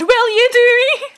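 high and loud, cracking up; laughing repeat. Real, not acted. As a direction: repeat it laughing at the double meaning. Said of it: "that sounded so bad".

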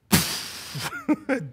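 imitated hiss of air going out; deflating. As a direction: let the air out like a punctured student.

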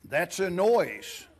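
slow, a lightly voiced sly Grinch; a hint of the Grinch, drawn out slowly. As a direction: read it slowly as a mild storybook Grinch. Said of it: "Let me get my Grinch voice in".

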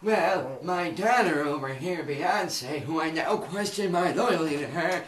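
put-on stern old father. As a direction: denounce them like an old patriarch. Father accuses in low voice.

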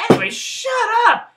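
very loud, high yell; self-interrupting shout. Real, not acted. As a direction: cut your own rambling off with a yell. Cuts off own rambling.

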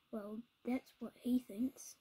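hushed sly whisper. Acted. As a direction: whisper it behind his back. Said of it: "The animals all whispered".

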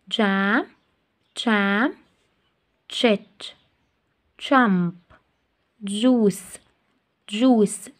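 جاكيت and each word started with a clear ja sound; teacher drills words starting with ja; phonics drill. Shown as a demonstration. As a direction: spell out the ja sound in each word, pausing between. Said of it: "هنقرأها الجا عشان جت هنا في اول كلام".

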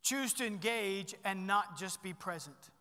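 slow, deliberate "Choose to engage and not just be present"; weight every word of the point; dictating the second key slowly; slow emphatic key point. Shown as a demonstration. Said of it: "Number two is this".

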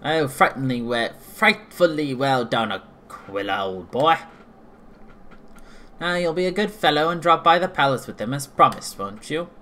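lightly done posh British voice; posh british accent. Acted. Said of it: "What was that weird posh voice?".

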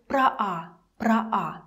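"про а" as "pra-a"; two open a vowels in "про а"; pro before unstressed a. Shown as a demonstration. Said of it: "it would sound like".

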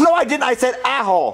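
tongue pinched, mangled words; holding tongue. Shown as a demonstration. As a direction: still talking with tongue held. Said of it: "hold your tongue and say apple".

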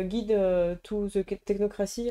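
a touch of English accent on Guide to the Technocracy; French speaker lightly putting on an English accent. Shown as a demonstration. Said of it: "avec mon accent anglais".

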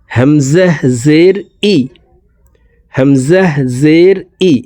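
"হামজাহ জের ই" fast, hamzah clipped short; quick hamzah. Shown as a demonstration. Teacher drilling quick hamzah for viewers. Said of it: "হামজাহ বলে দ্রুতভাবে পড়ব".

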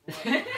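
brief acted chuckle; short gloating laugh. Officer hearing the suspect confess, short laugh. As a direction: laugh once, satisfied.

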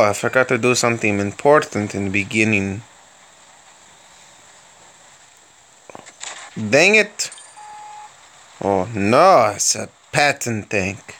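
hammed-up mock Russian accent held through the commentary. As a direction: play a cheerful Soviet tank commander with a thick Russian accent. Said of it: "I like doing that accent".

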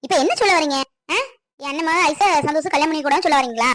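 indignant wife challenging her husband; angry. Acted. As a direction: demand an answer, temper rising. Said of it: "கோவப்படாத மீனு". (கோபமாக அதட்டிக் கேட்பது)

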